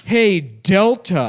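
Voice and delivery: loud, slow, high call-out; mock angry tweeter. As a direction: yell it out slowly at the airline. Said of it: "and they're like".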